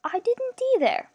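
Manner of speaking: thin, high, sickly-gentle voice; sickeningly gentle villain. A narrator's reading. Villain breaking in on his captives, sickeningly gentle. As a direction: break in with a creepy, thin sweetness. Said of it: "thin, low, and sickeningly gentle".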